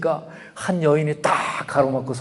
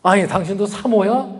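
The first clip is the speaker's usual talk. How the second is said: mildly acted angry comeback, higher; half-acted indignant question; heated retort; 4 semitones higher than usual. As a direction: throw the challenge back in a mock marital spat. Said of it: "저도 막 열받아가지고".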